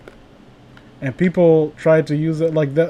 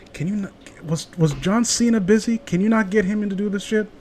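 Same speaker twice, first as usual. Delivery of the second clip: soft complaint aimed at the producer; hushed aside; 3 semitones higher, 7 dB quieter than usual. Acted. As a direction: lean away and grumble quietly.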